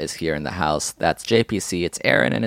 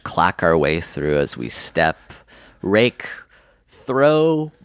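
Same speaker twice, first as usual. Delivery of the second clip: poetic reading; 2 semitones lower, slower than usual. Pretend. Poetic fall description.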